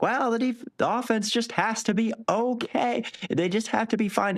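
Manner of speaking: very high, hammed-up mocking ogre voice; mock the doubters in a silly ogre voice. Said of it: "mock those people who say that like I just did in ogre voices".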